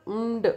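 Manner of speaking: "म्ड" as a hummed m released into d; final cluster sounded out. Shown as a demonstration. Teacher isolating the end sounds for students, sounded out. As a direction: sound out "म्ड" alone, without the rest of the word. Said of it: "उम और ड का आ रहा है sound".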